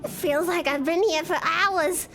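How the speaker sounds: cartoon mom overwhelmed, pitch rising; Lois. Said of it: "Lois experiences ego death".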